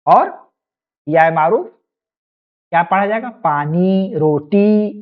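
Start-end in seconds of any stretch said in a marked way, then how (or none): 3.3-4.9 long ee ending पानी and रोटी; पानी, रोटी with a held last vowel; drawn-out ee. Shown as a demonstration. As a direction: stretch the final ee of पानी, रोटी. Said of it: "खींचकर".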